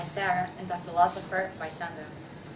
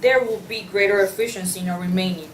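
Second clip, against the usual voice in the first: louder, grand and insistent; defiant declaration; 5 dB louder than usual. Acted. Artist refuses the editor's request to leave, loud and defiant. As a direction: plant your feet and proclaim.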